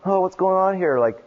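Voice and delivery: high, slowed, mock-panicked city kid; mock freaked-out kid. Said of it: "kids are like".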